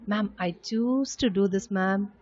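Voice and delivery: slow, positive and willing; positive attitude. Shown as a demonstration. Teacher showing pupils a positive answer, slow and willing. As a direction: say it like you gladly chose it. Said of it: "You have to say in a positive attitude".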